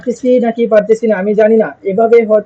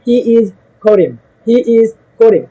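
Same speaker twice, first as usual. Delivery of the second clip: slow model sentence; much slower than usual. Shown as a demonstration. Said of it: "আপনি কি বলবেন?".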